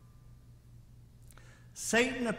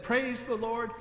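high, loud call to go; urging horse on; 7 semitones higher, 5 dB louder than usual. A narrator's reading. Preacher calls out to start his horse, high and loud. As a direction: spur the horse on with it.

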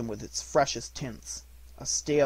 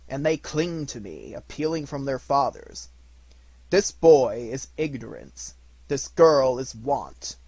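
stern ghost; 7 dB louder than usual. Acted. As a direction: warn him like a judge. Spirit warns of Ignorance and Want.

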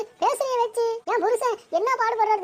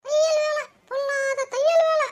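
drawn-out, sneering echo; scornful mockery; slower than usual. Neighbour belittling a tailor's work in a quarrel, mocking. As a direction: throw the words back with scorn.

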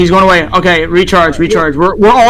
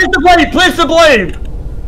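urgent shouting; 5 semitones higher, slower than usual. Real, not acted. Urging teammate during chase.

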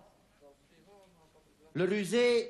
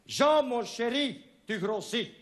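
wife voice, higher; 7 semitones higher than usual. Acted. Voicing wife in poem.

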